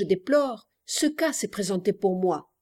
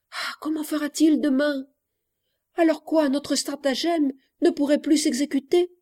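higher, mildly alarmed questioning; worried; 5 semitones higher than usual. Acted. Girl realising Ernest has no garden key, worried. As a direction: fret aloud as the plan falls apart. Fears the elopement plan will fail.

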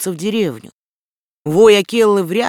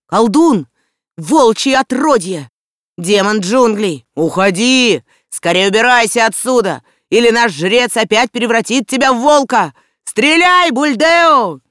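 loud, higher angry mob yelling; villagers shouting; 5 semitones higher, 7 dB louder than usual. A narrator's reading. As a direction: hurl it at him like a furious crowd. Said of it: "жители деревни закричали".

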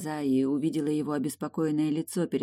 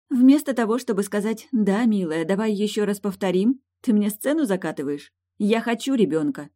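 much higher and louder, urgent love; passionate young princess; 7 semitones higher, 5 dB louder than usual. A narrator's reading. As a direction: pour out love and defiance. Eilin voiced by narrator.

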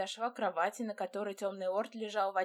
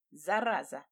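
low and louder, a bitten man's curse through pain; hissed curse; 5 semitones lower, 4 dB louder than usual. A narrator's reading. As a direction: spit the curse out, pained and angry. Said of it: "Прошипел".

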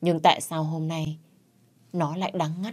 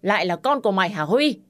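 angry scolding; 4 semitones higher than usual. Acted. Mother-in-law berates Huy.

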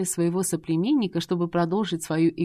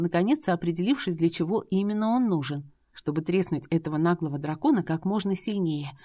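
plain reading voice

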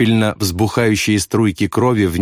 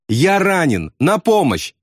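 pleading cry; 8 semitones higher than usual. A narrator's reading. Wounded man begging for help.

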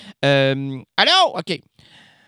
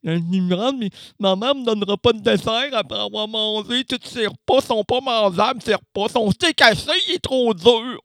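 put-on whiny child; 4 semitones higher than usual. Voicing a whiny kid.

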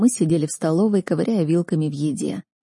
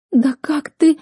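1 indignant gasp; 9 semitones higher, 4 dB louder, slower than usual. Acted. Chloe indignant.

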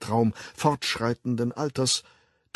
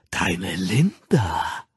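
whisper; 3 semitones lower, 3 dB louder, much slower than usual. Acted. Linda pleading intimately.

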